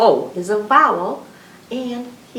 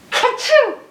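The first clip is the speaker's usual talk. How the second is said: sneeze; 7 dB louder than usual. Shown as a demonstration. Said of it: "the ka-choo in my arms".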